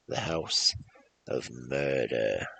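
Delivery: slow, drawn-out title; dramatic title announcement. Pretend. Introducing the next story to viewers, slow and dramatic. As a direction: announce it like a horror movie title.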